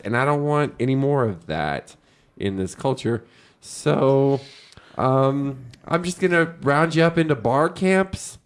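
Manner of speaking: Clinch. Acted. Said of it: "it's Clinch".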